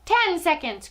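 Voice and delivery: high countdown cry; witch's cry. A narrator's reading. Witch counting down over Bruno, crying out. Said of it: "cried the Grand High Witch".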